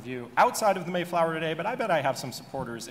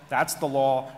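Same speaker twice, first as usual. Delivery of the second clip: louder, hammering the point that it's the law; firm emphasis; 6 dB louder, slower than usual. Real, not acted. Panelist insisting to the room the statute is law, stressed firmly. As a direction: plant it like a final ruling.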